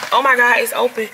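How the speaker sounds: breathless amazed discovery; can't believe your luck, voice lifting; astonished. Real, not acted. Finds own house unlocked.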